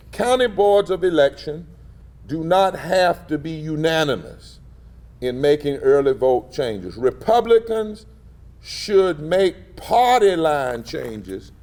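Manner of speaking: slow, emphatic read-out of the quote; quoting a letter. Retold or imitated. Speaker quotes the party director's letter to the crowd, emphatic. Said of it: "He said".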